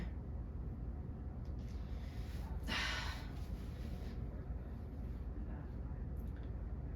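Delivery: very long, soft exhale; sigh. Acted. Luis worn by fear of eviction, sighing softly. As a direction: breathe out slowly and quietly. Sigh after listing family fears.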